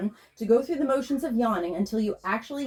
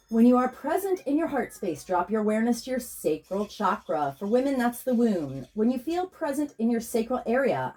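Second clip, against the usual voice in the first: scripted intro read. Acted. Healer introducing her session to listeners, calm and even.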